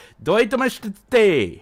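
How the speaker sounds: "どういたまして" rushed, the middle syllables dropped; clipped imitation. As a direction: mimic the missing syllables quickly. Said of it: "It sounds like".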